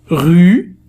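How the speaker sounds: rue with a clear rounded u sound; model vowel u. Shown as a demonstration. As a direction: stretch the u in rue, lips rounded. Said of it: "إذا هنا صوت u".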